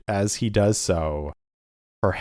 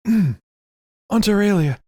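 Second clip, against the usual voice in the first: slow, louder high call; 12 semitones higher, 5 dB louder than usual. Acted. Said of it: "and he's like".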